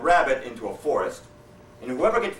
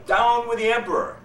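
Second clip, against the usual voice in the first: high, loud shouted taunt; yell; 11 semitones higher, 6 dB louder than usual. Acted. Sergeant shows the sharpshooter what to yell, a high loud shout. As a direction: bellow it into the cave. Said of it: "go to the mouth of the cave and yell".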